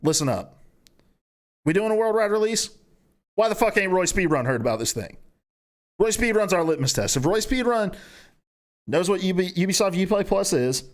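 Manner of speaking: lightly acted rallying company speech; mock-earnest boardroom address; boardroom pep talk. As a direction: address the room like a fired-up marketing boss.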